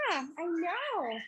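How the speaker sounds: soft whispered aside. Real, not acted. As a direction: breathe it to the bird.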